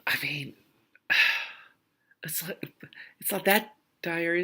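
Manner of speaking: a hushed sigh of an aside; half to herself, breathy and soft; whispered aside. Real, not acted. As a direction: reader slipping into a private whisper. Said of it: "private aside".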